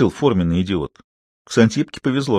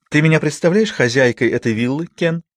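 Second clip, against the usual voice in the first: a hint of a grand lady, higher; dreamy lady; 6 semitones higher than usual. A narrator's reading. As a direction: lightly play the mistress of a villa. Ксантиппа dreams aloud. (мечтательно, как хозяйка виллы)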